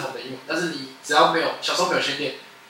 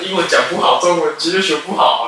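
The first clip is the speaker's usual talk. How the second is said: louder, slow scornful jabs; mocking scorn; 3 semitones higher, 5 dB louder, slower than usual. Mocking people who fake a British accent, slow and scornful. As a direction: sneer at the poser slowly.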